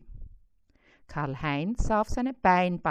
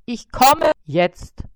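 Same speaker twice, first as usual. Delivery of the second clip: slow, louder, grumpy spider voice; grumbled; 7 semitones higher, 10 dB louder, slower than usual. A narrator's reading. Woken spider grumbles back at the fly, slow and loud. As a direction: drag it out, annoyed at being woken.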